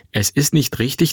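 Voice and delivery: mother's insistent counter; firm retort. Acted. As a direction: throw the words back with conviction. Mother turns his words back. (bestimmt entgegnend)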